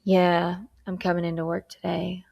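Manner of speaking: reluctant, dragging yes; half-hearted agreement; unenthusiastic. Shown as a demonstration. Teacher demos a grudging reply to the boss. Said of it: "And I say it like that versus".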